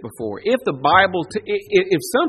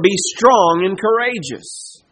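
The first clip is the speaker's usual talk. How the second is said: voicing God's command; 2 semitones higher, 5 dB louder than usual. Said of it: "God has just told Joshua".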